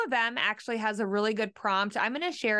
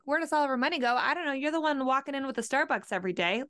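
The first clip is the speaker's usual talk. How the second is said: mock accusation; 4 semitones higher, faster than usual. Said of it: "You're like".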